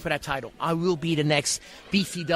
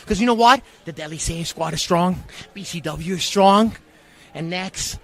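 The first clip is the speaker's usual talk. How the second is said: wrestling promo rant. Acted. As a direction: threaten the champion like a wrestling villain. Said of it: "Character, character starting a little early".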